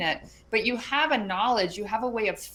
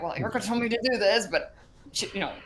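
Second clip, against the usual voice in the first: anxious client; 3 semitones higher, 4 dB louder, faster than usual. Retold or imitated. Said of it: "They're like".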